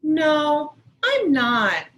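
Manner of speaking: put-on a kid refusing at full volume; hammed-up sulky girl; upset child. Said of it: "Sarah said".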